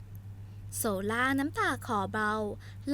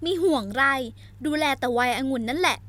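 louder defiant accusation; angry retort; 2 semitones higher, 5 dB louder than usual. Acted. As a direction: throw the blame back at him. Heroine's furious retort.

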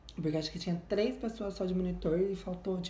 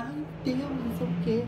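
mock rude reply; 6 semitones higher, 4 dB louder than usual. Mimicking rude bar girl's reply.

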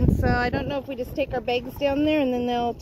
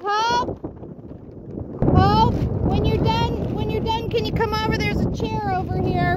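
raised voice calling across distance; 9 semitones higher than usual. Real, not acted. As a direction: call her over from far away. Calling out to Hope across desert.

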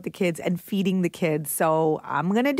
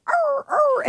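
high-pitched playful dog noises; mock dog voice, pitched way up; dog bark. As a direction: make a questioning, high doggy "arr, arr". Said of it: "in character as Coffee the Pooch".

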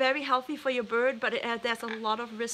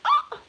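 sudden piercing high shriek, much louder; imitated parrot scream; 9 dB louder than usual. Owner imitating her nervous parrot screaming, shrill squawk. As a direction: mimic a frightened bird's scream. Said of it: "then she screams like".

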